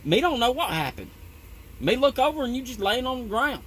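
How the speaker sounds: a hint of a puzzled tall coworker explaining; Slim impression. Coworker tells the narrator he just fell down, lightly voiced puzzled. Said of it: "He's like".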